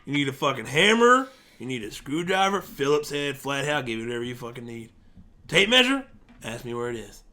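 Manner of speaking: lightly put-on hardware-store accent; accented hardware worker. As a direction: play an eager store hand offering everything. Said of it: "That's a really good accent".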